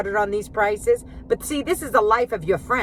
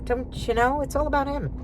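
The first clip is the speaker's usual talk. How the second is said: a higher, teasing echo of the jab; high mocking sing-song; 6 semitones higher than usual. Real, not acted. Taunting her self-absorbed husband in a high sing-song.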